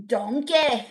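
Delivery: a hint of a cartoon ogre's accent; lightly voiced ogre calling out; Shrek. Streamer tries the movie ogre for chat, light impression. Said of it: "I thought you said I sound like Shrek".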